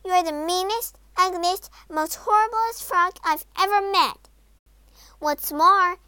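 high, loud princess outburst; angry tirade. A narrator's reading. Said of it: "snapped Poppy".

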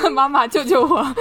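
laughing mock plea. Joking plea while laughing.

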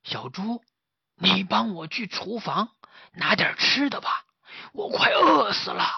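high whiny begging voice; hungry master pleading. Acted. Master begging the pig for food, whiny and high. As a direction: whine for food, starving.

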